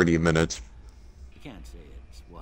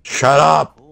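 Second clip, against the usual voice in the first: loud, high shout; 8 semitones higher, 7 dB louder than usual. Real, not acted. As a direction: yell it back at the screen. Reacting to game's opening line.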